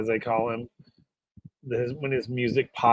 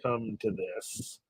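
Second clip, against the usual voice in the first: mock pity; 11 dB quieter than usual. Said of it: "I just look at him and go".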